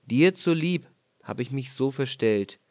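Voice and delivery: sanft beruhigend, etwas tiefer; freundlich. Acted. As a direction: leise tröstend zusprechen. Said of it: "Er sprach ihr freundlich zu". (der König tröstet die Frau, freundlich)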